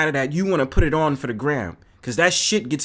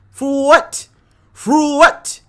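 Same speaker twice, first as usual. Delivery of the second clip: higher, louder repeated question; indignant shout; 8 semitones higher, 7 dB louder, much slower than usual. Real, not acted. Ranting at pricey steak dinners, indignant shout. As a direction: demand an answer loudly.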